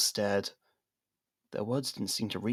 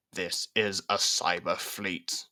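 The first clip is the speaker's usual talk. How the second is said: slow, level electronic robot; slower than usual. Acted. Robot questioning Liam, slow robotic monotone. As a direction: speak like a cold machine.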